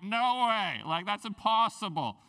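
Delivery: disbelief. Retold or imitated. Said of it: "They're like".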